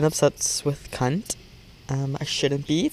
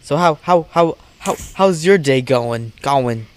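stammering worker; 4 dB louder than usual. Retold or imitated. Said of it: "he's like".

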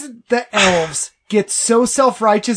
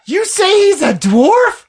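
mock outrage; 3 semitones higher than usual. Dwarf outraged at Gavin.

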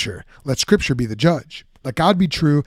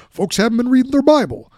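lightly voiced Obama punchline, pitched up; a hint of the president landing a wry jab; Barack Obama impression; 10 semitones higher than usual. Preacher closing his Obama impression with a wry jab, lightly voiced. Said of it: "my terrible Barack Obama impression".

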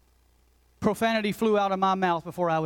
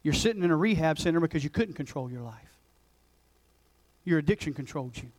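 gentle but firm; 3 semitones lower than usual. Retold or imitated. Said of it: "I wasn't mean or cruel".

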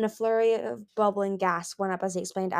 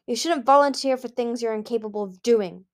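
harsh; 3 semitones higher, 4 dB louder than usual. Acted. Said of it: "Gil said harshly".

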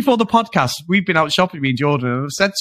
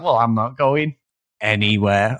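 imitating a kid digging in, anywhere dropped lower; childish refusal; 4 semitones lower than usual. Captive woman refusing her captor, mock childish refusal. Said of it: "like a kid".

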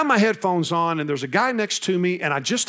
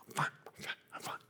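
whispered through tears; 18 dB quieter, much faster than usual. Retold or imitated.

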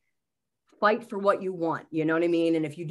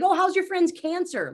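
imitating therapist; 10 semitones higher, 4 dB louder than usual. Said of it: "bringing up intimate things".

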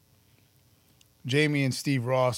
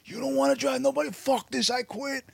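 angry outburst; 11 semitones higher than usual. Retold or imitated. Retold quitting outburst.

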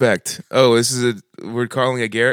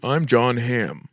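slow, drawn-out self-introduction; slow celebrity voice; much slower than usual. Pretend. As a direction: draw out each word slowly. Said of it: "That's the best one".

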